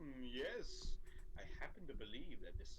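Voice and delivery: hammed-up British pondering; playful fake British voice; mock British accent. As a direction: pretend to be a stuffy Brit. American puts on British voice.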